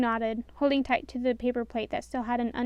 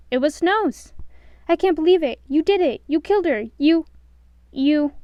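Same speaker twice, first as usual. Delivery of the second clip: gleeful villain; 5 semitones higher, 8 dB louder than usual. A narrator's reading. Boss thrilled at the kill.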